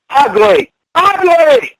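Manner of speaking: angry outburst. Real, not acted. Partner insulting the rival, angry outburst. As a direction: jab the insult home.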